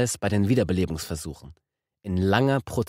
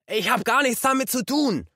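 shrieking. A narrator's reading. Truck driver shrieking at the detective, shrill denial. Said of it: "kreischte er".

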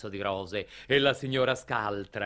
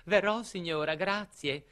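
lightly voiced girl, higher pitch; a hint of a young girl saying thanks; girl's polite reply; 5 semitones higher than usual. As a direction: answer the lady politely, pitched up. Girl answers the lady.

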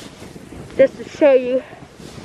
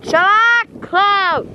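yelling at a dog; 10 semitones higher, much slower than usual. Real, not acted. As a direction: snap at the dog to hush.

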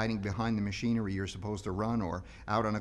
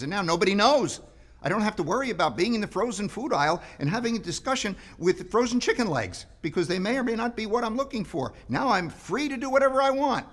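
climbing higher and louder, fast and giddy; excited retelling; 7 semitones higher, 6 dB louder than usual. Retold or imitated. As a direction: let the quote run away with glee. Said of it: "I said to somebody the other day".

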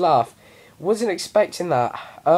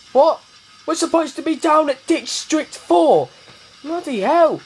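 mock outrage; 9 semitones higher than usual. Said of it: "retold reply".

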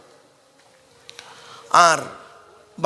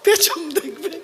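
laughing punchline; 8 semitones higher, slower than usual. Real, not acted. Punchline to the crowd.

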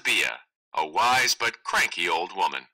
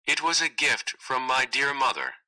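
sweetly; 4 semitones higher than usual. Acted.

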